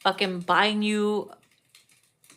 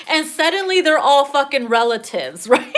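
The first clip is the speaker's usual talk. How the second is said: laughing; 3 semitones higher, 5 dB louder than usual. Real, not acted. Laughing at own joke.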